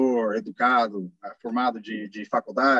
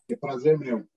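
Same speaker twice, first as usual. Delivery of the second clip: American accent Portuguese. Real, not acted. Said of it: "aguentar meu sotaque americano".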